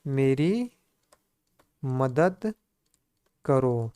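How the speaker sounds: slow, with a long pause between each word; word-by-word dictation. Shown as a demonstration. Teacher dictating to students, word by word. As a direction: dictate it so they can write along. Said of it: "क्या हो जाएगा प्यारे मित्रों?".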